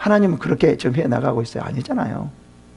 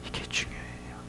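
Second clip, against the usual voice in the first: whisper; 21 dB quieter than usual. Real, not acted. Preacher whispers key point.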